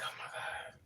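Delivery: breathless whispered oh my God; shocked whisper. Retold or imitated. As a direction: whisper it in disbelief. Shocked after pushing him off.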